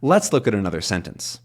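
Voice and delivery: "Let's" and "sentence" strong, "look at another" light; stress on sentence. Shown as a demonstration. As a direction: land the main stress on "sentence". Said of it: "changes the stress from sentence to here".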